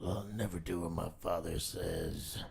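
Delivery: low, slow Alex Jones impression. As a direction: growl it out like a ranting tough guy. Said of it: "It's your Alex Jones voice".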